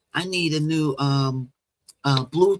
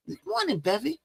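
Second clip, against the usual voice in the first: high sing-song greeting; 8 semitones higher, 5 dB quieter, faster than usual. Real, not acted. Greeting chat viewer Bevy.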